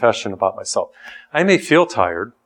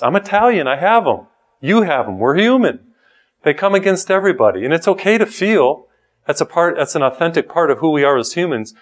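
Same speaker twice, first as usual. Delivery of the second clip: animated emphasis; 4 semitones higher than usual. Real, not acted. Preacher grows animated.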